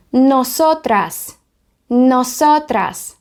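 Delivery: slow, stretched Spanish syllables; teacher's deliberate, drawn-out Spanish; slow model pronunciation. Shown as a demonstration. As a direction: sound out the word carefully for learners. Teacher models the feminine Spanish word.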